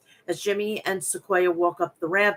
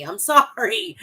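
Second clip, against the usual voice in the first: sorry said through a real laugh, higher and louder; laughing apology; 7 semitones higher, 4 dB louder than usual. Real, not acted.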